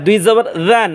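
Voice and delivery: জান with a soft voiced th, "dhan". Shown as a demonstration. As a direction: keep জান light, not thick. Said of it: "মানে নরম আওয়াজে".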